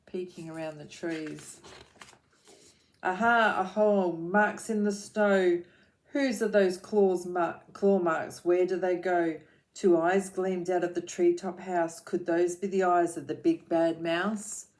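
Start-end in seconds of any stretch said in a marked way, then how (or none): 3.0-9.4 loud, bright little explorer; louder thrilled exclamation; excited discovery. Acted. Gruffalo's child finds claw marks. 9.7-14.7 put-on rhythmic read-aloud for children; lilting picture-book reading; story narration.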